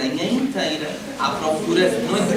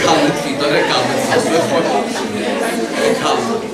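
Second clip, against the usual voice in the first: louder, laughing call to calm down; 7 dB louder than usual. Real, not acted. Teacher tells student Vitória to calm down, louder. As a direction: settle her down with a laugh.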